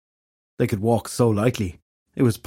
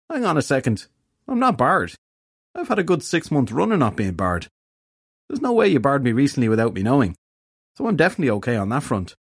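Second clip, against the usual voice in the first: higher, whiny protesting voice; fairy detective, indignant; 5 semitones higher than usual. A narrator's reading. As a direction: argue your innocence in a plaintive voice.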